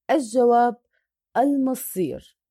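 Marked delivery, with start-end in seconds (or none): 1.4-2.4 slow "المصير", stretching the ii before a stopped r; madd arid lissukun. Shown as a demonstration. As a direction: hold the last vowel of "المصير", then pause on r. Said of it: "عارض للسكون".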